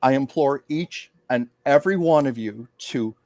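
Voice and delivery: slow, solemn heartfelt speech; lightly voiced formal address, slow and centered; channeled public speech. Medium channeling a first lady's message, slow and solemn. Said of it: "she went into public mode".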